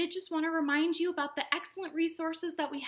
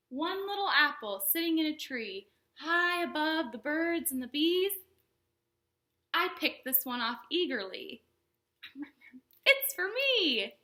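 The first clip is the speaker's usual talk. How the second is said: storytime rhyme; 2 semitones higher than usual. Acted. Reads counting rhyme to kids.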